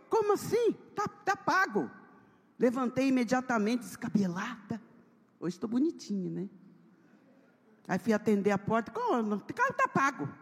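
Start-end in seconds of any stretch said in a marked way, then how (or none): 0.1-1.9 high shocked protest; can't believe they're taking it. Retold or imitated. 8.9-10.3 high disbelieving "tá pago"; indignant protest. Retold or imitated. Protesting at door.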